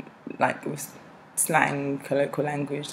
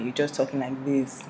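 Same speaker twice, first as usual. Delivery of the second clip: educated Nigerian accent, badly done; 3 semitones lower, 5 dB quieter than usual. Shown as a demonstration. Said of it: "this is my Nigerian accent, this is quite bad".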